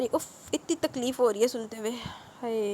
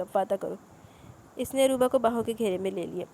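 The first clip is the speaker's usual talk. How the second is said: novel read aloud with the characters lightly voiced; story narration. Narrator reading the final chapter of a romance novel to listeners, audiobook style.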